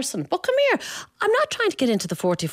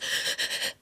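panic breathing gasp; 9 dB quieter than usual. Retold or imitated. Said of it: "panic breathing".

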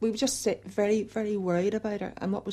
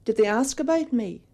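imitating daughter; 5 semitones higher, 7 dB louder than usual. Daughter quizzing mother, acted.

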